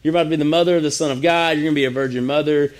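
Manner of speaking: fast, playful mock angel news; excited announcement. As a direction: blurt it out like big news. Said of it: "So the angel just said".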